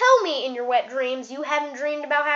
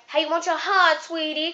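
lady barber; 3 semitones higher than usual. Retold or imitated.

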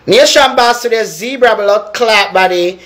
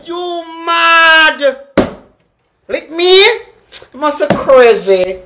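retold shout; 5 semitones higher, slower than usual. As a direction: fling it back as a shout. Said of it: "Me say".

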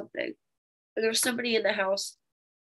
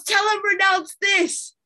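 higher, louder and slow mom giving orders from upstairs; imitating mom; 9 semitones higher, 6 dB louder, slower than usual. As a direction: drawl it out like mom bossing from afar. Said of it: "She goes".

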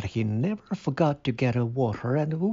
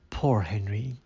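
gently; 3 semitones lower than usual. Acted. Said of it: "she said gently".

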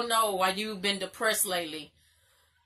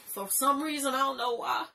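choked up, voice lifting; tearful; 3 semitones higher than usual. Real, not acted. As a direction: confess it while fighting real tears. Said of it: "I'm fucking crying".

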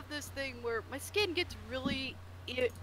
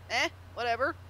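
low, offhand shrug of a reply; indifferent; 3 semitones lower, faster than usual. Retold or imitated. Showing own calm reaction beside Bliss's fury, indifferent. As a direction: brush it off casually. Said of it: "But me, I'm like".

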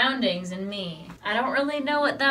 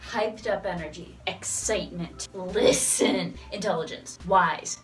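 spoken word; 2 semitones lower than usual. Pretend. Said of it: "spoken word, maybe?".

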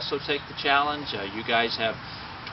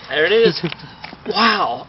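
in ice cold water; 6 semitones higher, 11 dB louder, slower than usual. Real, not acted. Just doused with ice water.

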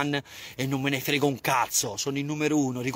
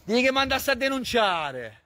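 higher, slow sneering repeat; mocking; 6 semitones higher than usual. Streamer mocks the man who reported him, sneering slowly. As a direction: throw his words back at him mockingly.

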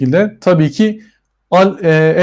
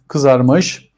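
ordinary delivery

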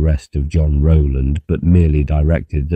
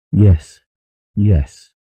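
quick, higher, eager yes; a mother eager to agree; 4 semitones higher, 3 dB louder than usual. A narrator's reading. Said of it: "she said eagerly".

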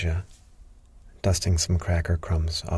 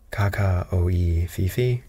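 bird language. A narrator's reading. Parrot showing the doctor bird language, lightly voiced bird talk. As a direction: parrot talk in nonsense syllables. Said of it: "in bird language".

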